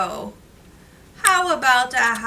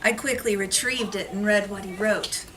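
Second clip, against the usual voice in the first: put-on reading to children. Reads picture book to class.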